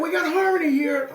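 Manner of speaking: very high, elated exclamation; delighted calling out. Retold or imitated. Imitating a singer clapping at the harmony, excited calling out. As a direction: imitate a singer crowing happily to the crowd. Retold star repeats his delighted call.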